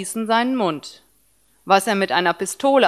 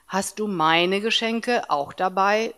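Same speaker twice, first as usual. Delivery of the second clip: curious; 4 dB quieter than usual. Acted. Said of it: "fragte Tim neugierig".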